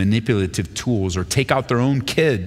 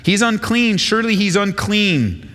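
Saul's suspicion; 10 semitones higher than usual. Acted. Saul's thoughts voiced in reading.

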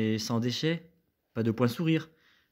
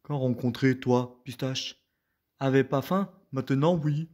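ogre voice. Acted. Ogre speaking broken French.

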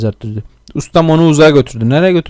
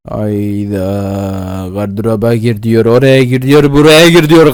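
mock the orders, getting louder each time; annoyed mockery building up; 2 semitones lower, 5 dB louder, slower than usual. Real, not acted. Mocking the game's orders.

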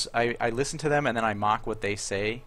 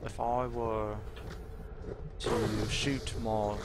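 put-on British accent; 5 dB quieter than usual. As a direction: put on a slow British accent, half-joking. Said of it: "What do you want me to say in my British accent?".

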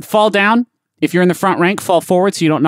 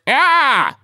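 high shrill scream; death cry; 9 semitones higher than usual. Shown as a demonstration. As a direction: scream like a dying soldier. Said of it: "Most people go with".

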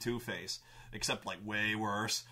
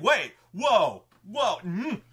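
high, loud startled whoa; alarmed protest; 8 semitones higher, 10 dB louder, much slower than usual. Retold or imitated. Brendan realizing the party eyes the bounty, startled protest. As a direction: caught off guard, backpedal fast. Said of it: "And Brendan's like".

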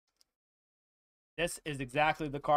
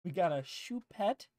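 sultry voice; 2 semitones higher, 4 dB quieter than usual. Pretend. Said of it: "you could have done better than that".

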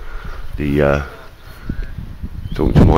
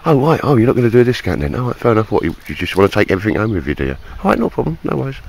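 higher, sarcastic shrug-off of the seller; mock sarcastic haggling; 3 semitones higher, 4 dB quieter, faster than usual. Haggling with a knife seller over a discount, in a higher sarcastic voice. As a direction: play it sarcastic, like walking away from a deal. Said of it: "my main haggling point was".

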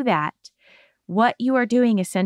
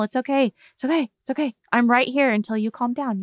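soothing; 3 semitones higher, faster than usual. Shown as a demonstration. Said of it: "Tell 'em it's normal".

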